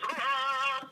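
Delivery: a light imitation of the famous yell; Tarzan yell. Imitating Tarzan swinging off with his yell. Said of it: "like he always did".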